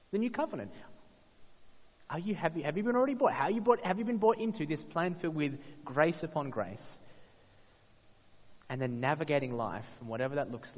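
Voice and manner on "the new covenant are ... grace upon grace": impassioned appeal. Real, not acted. Preacher's climactic appeal.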